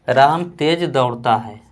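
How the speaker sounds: slow, clear example sentence; slow example read. Shown as a demonstration. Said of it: "जैसे". (धीमे स्वर में उदाहरण)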